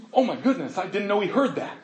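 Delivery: mock-panicked words through laughter; giggling retold panic; laughing through it. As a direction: voice Sarah's embarrassment while laughing. Voicing Sarah's caught reaction.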